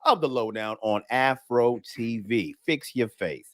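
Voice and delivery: upbeat radio host welcome; radio show intro. Acted. Host welcoming listeners to a nightcap of comedy, radio announcer delivery.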